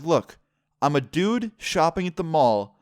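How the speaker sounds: fed up, spelling it out for her; exasperated rant. Real, not acted. Retorting to the accusing store lady.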